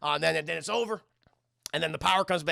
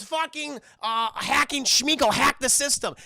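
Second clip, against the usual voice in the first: raised, urgent mock command; called-out order; 7 semitones higher, 6 dB louder, slower than usual. The speaker ordering Hacking Schmeagol, called-out order. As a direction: shout the order to your hacker.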